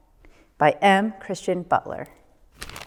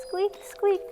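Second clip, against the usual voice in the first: much higher squeak squeak; lantern squeak; 12 semitones higher, 4 dB quieter than usual. A narrator's reading. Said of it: "went the lanterns".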